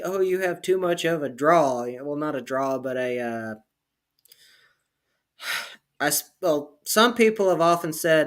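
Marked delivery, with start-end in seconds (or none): none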